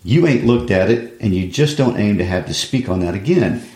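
pleading frustrated son, lightly acted; reading Walter. Son pressing his mother about the money, frustrated plea. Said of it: "I'll read Walter".

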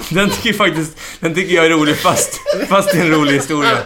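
pratar högre och ljusare genom skrattet; säger det medan skrattet fortfarande bubblar; skrattande. Real, not acted. Pratar genom skratt efter skämtet. (skrattande röst)

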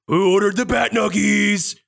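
high-pitched order call; counter worker calling order. Acted. Half-orc worker announcing food to customers, high calling voice.

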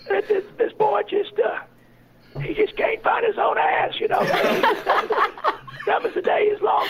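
dim-witted character. Shown as a demonstration. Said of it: "He'd sound like Bill Clinton with, uh, di-, with, uh, laryngitis".

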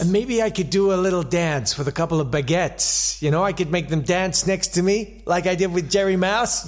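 lightly voiced eager American star; Gene Kelly. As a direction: pitch it blithely, hint of American accent. Plays Gene Kelly pitching scenes.

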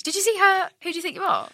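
ordinary talk, nothing marked

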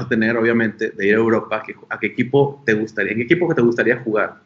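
low, loud, fast dramatic announcer; deep announcer voice. Pretend. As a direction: boom it out like a show host. Joking host asks big question. (voz grave de locutor)

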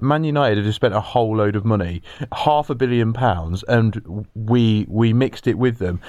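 low gruff Hodgson. Retold or imitated. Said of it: "he's like".

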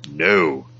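lightly voiced film villain, measured and commanding; a hint of a villain giving orders, with a pause after the first word; Vader. Quoting the villain from the film, lightly imitated command. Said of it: "when he's being like".

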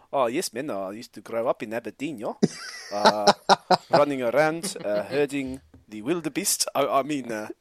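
a light, laughing attempt at a South African accent; half-hearted South African accent, laughing through it; mock South African accent. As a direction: put on a hammy South African accent and crack up. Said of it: "Please say Aberdeen in that accent".

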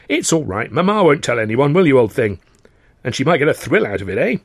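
high, breezy upper-class chatter; chatty young toff. Acted. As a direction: play a cheerful, eager young gent. Freddie voiced in dialogue.

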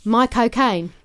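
Michael Caine try. Shown as a demonstration. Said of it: "let's do it again".

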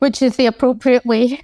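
lightly sarcastic verdict. Real, not acted. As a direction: pretend to approve, with light sarcasm. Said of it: "I'm being quite sarcastic".

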